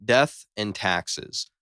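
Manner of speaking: drawn-out, slow and heavy; slow dramatic delivery. Acted. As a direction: drag it out for drama.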